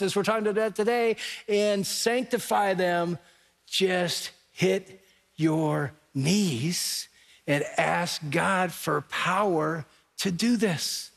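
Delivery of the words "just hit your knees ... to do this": very slow, spaced-out words; weighty exhortation. Real, not acted. Preacher urging husbands to pray, slow weighty exhortation. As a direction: press each word home slowly, with pauses.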